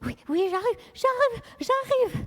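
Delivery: lightly voiced arriving character; calling from offstage. Charlotte answering from offstage on her way in. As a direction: call out while hurrying in.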